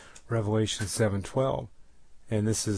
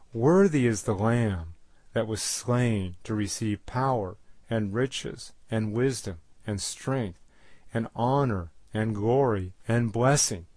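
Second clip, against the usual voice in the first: measured, emphatic Bible reading; solemn proclamation with weight on each noun; scripture reading; 3 dB louder than usual. Acted. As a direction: read the verse out firmly, item by item. Reads scripture aloud.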